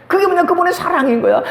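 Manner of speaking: ordinary talk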